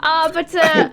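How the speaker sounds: courteous shopkeeper, lightly put on; lightly voiced shopkeeper. DM voices Nick again.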